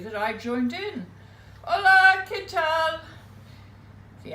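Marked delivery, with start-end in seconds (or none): 1.6-3.0 high, loud, sing-song Spanish greeting; excited greeting. Retold or imitated. Joining the loud Spanish party, a high sung greeting. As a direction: call it out gaily to the party.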